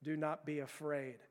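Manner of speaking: a prisoner quietly calming himself through a hood; low muffled recitation. Retold or imitated. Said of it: "he's speaking out loud through the bag".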